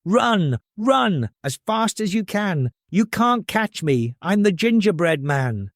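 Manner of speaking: high teasing chant; cheeky taunt. Acted.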